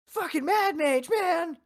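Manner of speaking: high, slow whiny imitation; mocking a friend's upset rant; high mock complaint. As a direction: stretch it out high and aggrieved. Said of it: "And he was like".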